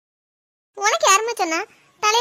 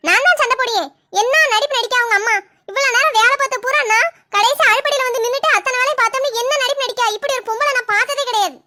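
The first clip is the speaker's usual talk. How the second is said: indignant rant, a little raised; angry quarrelling; 3 semitones higher than usual. Acted. Wife complaining to husband about his mother, angrily quarrelling. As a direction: fight back with mounting grievance. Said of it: "இப்படி சண்டைக்கு நிக்கியா".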